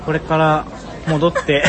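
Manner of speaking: stiff robotic syllables; loud, carefully separated words; Siri dictation voice. Real, not acted. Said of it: "Siriにさ、音声をさ、正しく読み取らせる時の喋り方".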